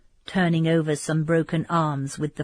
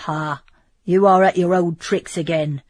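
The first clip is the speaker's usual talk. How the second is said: put-on gruff, louder grumble at an old comrade; surly tone; 5 dB louder than usual. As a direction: brush off the bragging sourly. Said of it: "said Bertrand in a surly tone".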